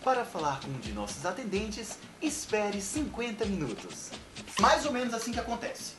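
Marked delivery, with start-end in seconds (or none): 0.0-4.1 calm, even automated attendant; phone menu voice. Acted. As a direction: read it like a recorded phone menu. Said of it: "atendente virtual".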